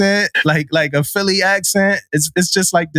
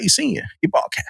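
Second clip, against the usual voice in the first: quick passing correction; 4 semitones higher, 5 dB quieter, faster than usual. Retold or imitated. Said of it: "he's like".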